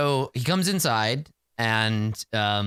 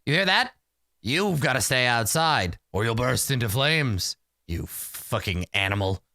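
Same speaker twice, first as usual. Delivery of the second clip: mock gloating. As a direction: lord it over the dog, sinking in pitch. Sorcerer gloats at the dog.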